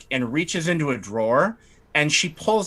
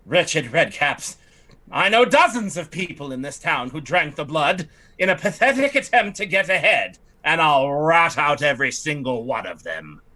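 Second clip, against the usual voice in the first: a slightly raised, haughty lady's voice; fussy noblewoman. Acted. Lightly raised voice as the lady fretting to the party about her estate. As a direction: play the put-upon aristocrat lamenting her estate. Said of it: "she says".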